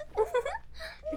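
high, giddy cackle; giddy laugh. Acted. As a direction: laugh with unhinged glee. Laughs at the reveal.

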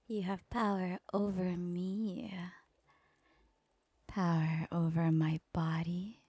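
soft breathy devoted whisper. Acted. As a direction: hush it right into his ear.

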